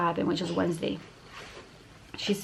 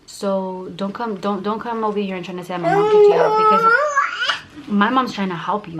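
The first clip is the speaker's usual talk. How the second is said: tearful anger; 3 semitones higher, 6 dB louder than usual. Real, not acted. Angry rant, crying at the end.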